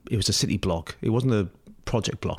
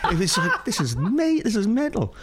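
laughing; 9 semitones higher than usual. Real, not acted. Laughing while retelling.

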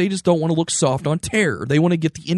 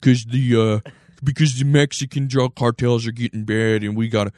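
a hint of a blustery cable host; Bill O'Reilly impression; 3 semitones lower than usual. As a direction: play a lightly voiced TV pundit. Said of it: "Bill O'Reilly probably is like".

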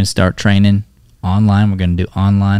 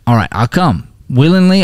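ordinary delivery

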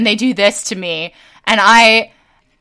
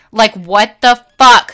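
angry outburst; 6 dB louder than usual. Real, not acted. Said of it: "I am so goddamn angry".

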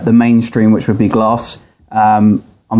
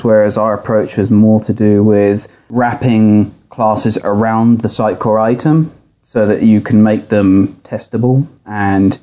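tinny audio through laptop speaker; thin, boxy speaker sound. Real, not acted. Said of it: "recorded from his laptop speaker".

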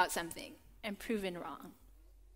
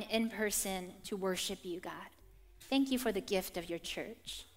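prayer; 2 semitones lower, 4 dB quieter than usual. Real, not acted. Preacher praying to God before the sermon, prayerful. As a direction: pray gently, easing down at phrase ends.

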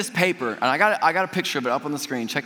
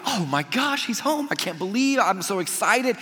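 high-pitched gush without extra volume; imagined delighted brother; 5 semitones higher than usual. Pretend. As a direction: pretend to be thrilled at a homecoming. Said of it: "you would hope that the brother would be like".

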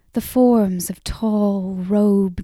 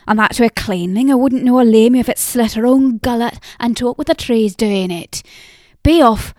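put-on scolding old woman; 2 semitones higher, 5 dB louder than usual.

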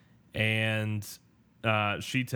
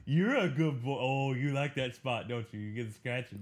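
put-on talking to a baby; 3 semitones higher than usual. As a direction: murmur to a dog getting scratched. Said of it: "I don't actually talk like that to an animal".

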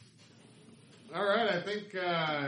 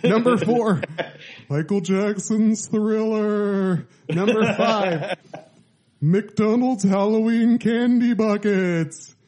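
SNL announcer; 2 semitones higher than usual. Pretend. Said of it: "Why am I doing like the S N L announcer?".

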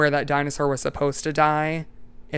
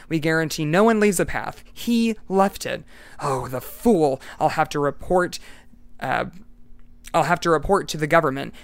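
a loud, raised scolding voice, lightly acted; furious guide voiced with moderate heat; angry official; 4 dB louder than usual. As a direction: rant at the fool who left the path.

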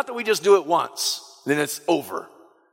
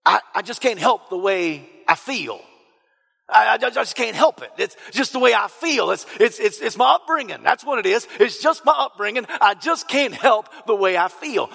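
redneck hillbilly impression; 3 semitones higher than usual. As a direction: mimic a self-excusing hillbilly, only a hint. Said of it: "all my impersonations sound like a, you know, a redneck hillbilly".

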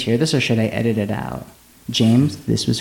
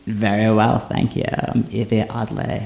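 Evie Oddly character voice. Acted. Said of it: "we have Evie Oddly in the studio".

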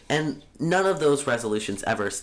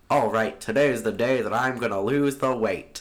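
1920s radio broadcaster. Pretend. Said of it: "You sound like a radio broadcaster from nineteen twenty".

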